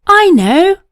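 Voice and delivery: high, loud eureka declaration; declaring. A narrator's reading. Clever boy declaring his plan aloud. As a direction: announce the bright idea. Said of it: "he declared".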